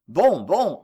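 a whispered grumble under the breath; grumbled to himself. A narrator's reading. Old father grumbling to himself about his son, whispered. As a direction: mutter it aside, half-voiced, resigned. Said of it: "grogna en lui-même".

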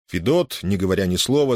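plain reading voice

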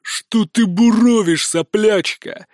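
slow roaring contempt; father roaring at his insolent daughter. A narrator's reading. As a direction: drag it out, full of scorn. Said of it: "ревёт Узимир".

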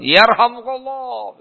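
high, drawn-out mock chorus; echoing troop chorus. All the caliph's troops bless him, echoing chorus. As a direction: imitate many voices ringing out, long and high. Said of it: "Begitu, menggema".

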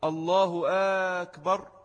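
long drawn first vowel on أكبر; الله, then stretch the opening A of أكبر; مد همزة أكبر. Shown as a demonstration. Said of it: "استفهام". (مدّ الهمزة في أول «أكبر»)

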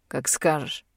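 snap. A narrator's reading. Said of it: "огрызается Дар".

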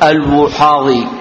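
الوحاضي with a u vowel after the waw; damma on waw. Shown as a demonstration. Teacher vowels a narrator's surname for students, damma on waw. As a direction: say الوحاضي as al-Wuhadi. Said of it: "بضم الواو".

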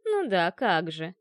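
медленно, с усмешкой; протяни с ленивой насмешкой; насмешливо. Acted. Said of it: "насмешливо хмыкнула собеседница". (насмешливое хмыканье кошки)

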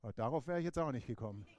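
sheepish laugh through the words; laughing Moses. Retold or imitated. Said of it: "Und Mose sagt".

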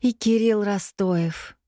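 lightly voiced dreamy girl, slow; dreamy drawl. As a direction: drift off on it, slowly. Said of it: "мечтательно протянула Ксения".

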